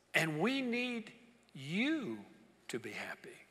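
soft, slow, fading to a whisper; tender reassurance, trailing to breath; gentle happy tone. Retold or imitated. Jesus gently comforting the grieving pastor, soft and slow. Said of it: "kinda had a happy tone to his voice".

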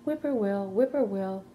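high two-time birdsong call in words; bird call. A narrator's reading. A bird singing from across the road, lilting call. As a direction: lilt it like a bird's evening call. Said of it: "a bird sang".

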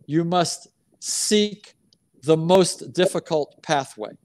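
slow, "must" lifted and held, "You must seek"; stress on must. Shown as a demonstration. Coach repeating his rule, slow with "must" stressed. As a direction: lean on "must", stretched slowly. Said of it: "coach repeats, stressing must".

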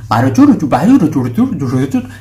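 mock gibberish. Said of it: "Nagmukha na siyang Maya sa pandinig mo".

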